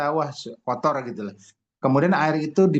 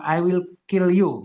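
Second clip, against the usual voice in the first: raised, drawn-out mock threat; mock yell; 6 semitones higher, 5 dB louder, slower than usual. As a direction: imitate someone yelling at water, higher and louder. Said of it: "Jadi air yang diteriakin".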